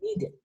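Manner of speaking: "needed" ending in "-id". Shown as a demonstration. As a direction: say "needed" as "ni-did", with an I in the last syllable. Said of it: "ese I D al final".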